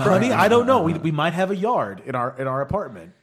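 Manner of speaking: high, loud fretting wife; mock wife voice. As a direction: whine it like a worried wife. Voicing a wife.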